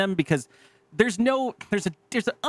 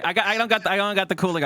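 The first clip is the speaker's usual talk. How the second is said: laughing self-mockery; 5 semitones higher, faster than usual. Real, not acted. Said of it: "I probably sound like a fucking baby".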